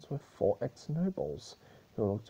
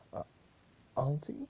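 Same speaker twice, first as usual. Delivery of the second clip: muttered line; 8 semitones higher than usual. Acted. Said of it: "muttered Blueblood".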